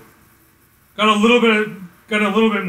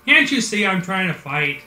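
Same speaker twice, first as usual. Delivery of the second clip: put-on annoyed teen; 3 semitones higher, 5 dB louder than usual. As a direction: snap back like a kid interrupted mid-fight. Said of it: "And Rouse is like".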